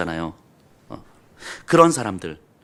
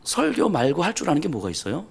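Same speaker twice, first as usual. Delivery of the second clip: laughing quote; 2 semitones higher, 5 dB quieter than usual. Retold or imitated. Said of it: "우리 권사님들도 요즘 그러세요".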